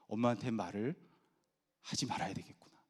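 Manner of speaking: put-on hushed voice of a child thinking to himself; low, soft self-talk; child's inner resolve. Child deciding not to tell mom, hushed inner resolve.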